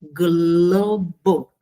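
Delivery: "globo" drawn out, with the G sounded before the L; "globo" as a careful demonstration of the GL cluster; G clearly pronounced. Shown as a demonstration. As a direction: sound out "globo" slowly, both G and L audible. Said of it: "pronunciamos o G".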